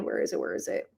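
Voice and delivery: barely audible search mutter; mumbling while hunting for a file; muttered to herself. Real, not acted. Vlogger searching her screen, muttering quietly.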